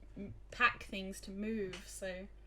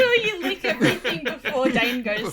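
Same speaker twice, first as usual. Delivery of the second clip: laughing; 6 semitones higher, 13 dB louder than usual. Real, not acted. Joking, laughing loud.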